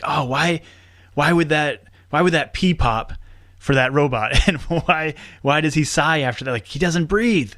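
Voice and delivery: mildly exasperated, pitch lifted; driven nuts. Retold or imitated. Voice actor reliving his gripe about breathing robots, mildly exasperated. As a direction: fret over a tiny annoyance, half in fun. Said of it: "it drives me nuts".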